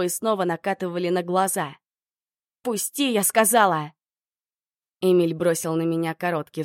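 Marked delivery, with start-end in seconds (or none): 2.6-3.9 voice breaking. Acted. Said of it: "голос уже срывался".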